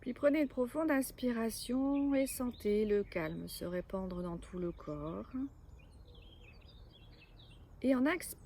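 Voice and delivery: measured yoga nidra guidance with long pauses; guided relaxation. Acted. Yoga teacher guiding listeners to lie still and let go, guided relaxation. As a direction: lead them into rest, phrase by phrase, clearly voiced.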